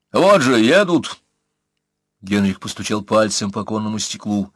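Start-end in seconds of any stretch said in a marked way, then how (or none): 0.1-1.2 insistent. Acted. Colonel points at riders.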